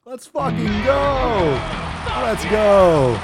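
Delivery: loud, high, stretched cheer; hyped shout. Real, not acted. Host cheering the gym caller, loud stretched cheer. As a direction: roar it out like a win.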